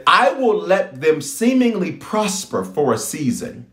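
slow, measured voice of God; slow, deliberate divine voice; voicing God slowly. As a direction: speak as the Lord, unhurried. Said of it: "He said".

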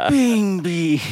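high-pitched mimic; high mimicking. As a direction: echo it back, high. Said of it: "miming you and goes".

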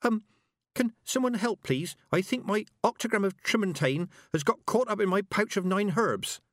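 high, timid, muffled little voice; small nervous voice. A narrator's reading. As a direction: squeak it out from bent double. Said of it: "came a little voice".

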